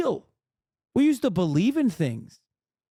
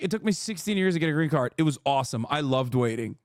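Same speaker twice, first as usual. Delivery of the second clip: mock sarcastic quote; 5 semitones lower, faster than usual. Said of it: "Were you like".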